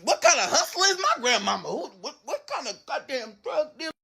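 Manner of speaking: high, stammering astonishment; acted-out comic awe; amazed disbelief. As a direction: marvel in a high, halting voice. Teller's awed reaction to gold house.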